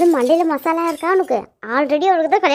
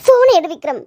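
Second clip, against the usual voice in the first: tense, raised-voice plea; impatient and a little louder; impatient urging; 4 dB louder than usual. Acted. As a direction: urge him to pick up, frustrated. Urging him to pick up.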